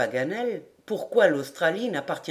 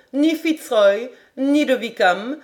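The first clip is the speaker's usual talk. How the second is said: plain reading voice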